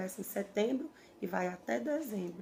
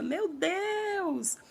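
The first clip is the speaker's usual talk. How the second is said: high, louder cry of terror; woman screaming at the wave; desperate scream; 7 semitones higher, 4 dB louder than usual. Retold or imitated. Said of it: "Ela gritava".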